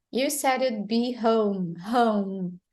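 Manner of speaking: "home" ending on a hummed M; silent final E. Shown as a demonstration. Teacher repeats the clip for learners, silent final E. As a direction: close "home" on M, no E. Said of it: "Is it pronouncing the final E".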